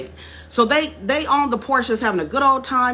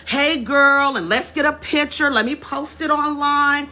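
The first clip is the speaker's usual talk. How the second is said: higher, bubbly put-on friendliness; mock chirpy fan; 6 semitones higher than usual. White women fawn over Stacey for photos, bubbly mock. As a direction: imitate fake friendly women.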